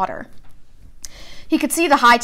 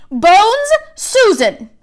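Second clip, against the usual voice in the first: calling out a name; 10 semitones higher, 4 dB louder, much slower than usual. A narrator's reading. Name called out at sorting.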